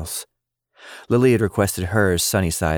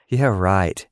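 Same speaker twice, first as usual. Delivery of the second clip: scoffing. Acted. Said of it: "she scoffed".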